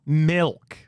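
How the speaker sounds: "Milk" stretched out with a short ih; corrected milk. Shown as a demonstration. Host practising the corrected word, long emphatic "Milk". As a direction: say "Milk" emphatically, vowel as in "hill". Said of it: "There you go".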